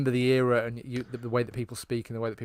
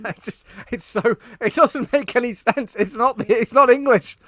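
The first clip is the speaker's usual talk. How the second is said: laughing; 12 semitones higher, 11 dB louder than usual. Real, not acted. Laughing at the absurd line.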